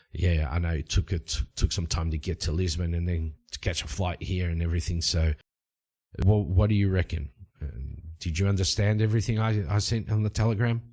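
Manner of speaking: low-pitched, matter-of-fact traveller; Cole. Acted. Traveller checking his telegram was understood, low character voice. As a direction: play the hero low and understated.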